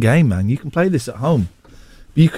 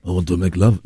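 lower, laughing cheesy Italian lover; Italian accent; 8 semitones lower than usual. Acted. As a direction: purr it like a mock Italian romeo.

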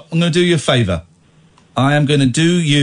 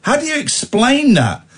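mock indignation; 6 semitones higher than usual. Real, not acted. Mock outrage at caller.

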